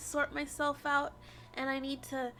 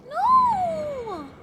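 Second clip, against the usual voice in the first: anguished shout; 9 semitones higher, 9 dB louder than usual. Real, not acted. Protesting the twist.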